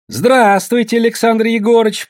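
high, sing-out greeting; deferential greeting. Acted. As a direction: greet the boss with a bow in the voice. Woman bows to arriving boss.

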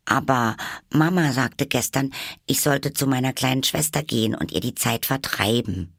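high little Alice voice; earnest Alice. A narrator's reading. Alice tells the Hatter about Mama, earnest. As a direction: offer it earnestly, pitched high.

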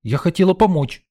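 high blurting plea; girl calming down, blurting her excuse; blurted out. Acted. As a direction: blurt it out to justify yourself. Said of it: "успокаиваясь, выпалила Лена".

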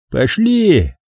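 command. A narrator's reading. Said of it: "скомандовал Робби".

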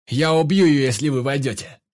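loud, high shout through the door; shouted threat. A narrator's reading. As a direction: yell the threat at the squad. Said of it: "крикнул Вик в ответ". (громкий крик в ответ через дверь)

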